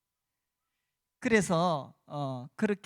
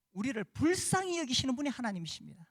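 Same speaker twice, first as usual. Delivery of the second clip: ordinary talk, nothing marked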